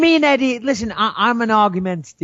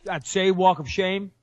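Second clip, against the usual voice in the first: put-on slow, softer American accent; a bad American accent attempt; 5 dB quieter than usual. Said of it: "that's fucking horrific".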